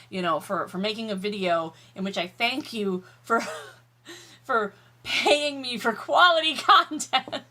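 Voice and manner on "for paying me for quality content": laughing through the words. Real, not acted. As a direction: giggle while speaking. Laughs at own mess.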